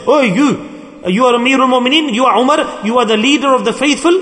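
a hint of an old woman confronting a leader. Old woman addressing the leader of the faithful in a gathering, lightly voiced challenge. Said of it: "The old woman was saying to him".

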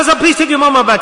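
quick, mildly urgent imitated plea; retold alarmed plea. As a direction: lightly act out a startled man pleading. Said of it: "And he screamed out".

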